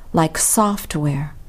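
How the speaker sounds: software stressed on soft, said slowly; drawn-out software with weight on soft. Shown as a demonstration. Teacher slowly showing stress on the first part. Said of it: "stress usually falls on the first part".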